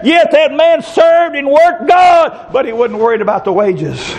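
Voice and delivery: slow, shouting preacher cadence; preaching. Real, not acted. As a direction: drive it home from the pulpit.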